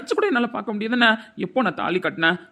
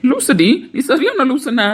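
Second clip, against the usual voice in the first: laughing scorn; 6 semitones higher, 6 dB louder, slower than usual. Acted. Couple quarrel, mocking laugh.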